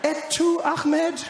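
high, loud, incredulous; stunned by the betrayal; betrayed disbelief. Retold or imitated. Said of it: "I was like".

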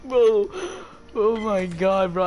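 excited. Real, not acted. Excited after big hit.

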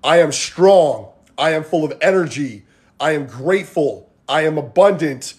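measured mantra, each line set apart; strong affirmations. Shown as a demonstration. Coach modelling strong thoughts for viewers, firm affirmations. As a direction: declare each phrase firmly, then let it fall. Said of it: "replace your weak thoughts with strong thoughts".

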